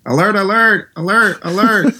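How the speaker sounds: mock Brady shouting an audible; hammed-up quarterback audible at the line; Tom Brady impression. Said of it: "Can I hear your Tom Brady again".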